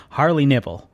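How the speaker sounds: American-accented self-introduction. Shown as a demonstration. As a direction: introduce yourself with a rhotic American R. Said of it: "I had to do it in an American accent".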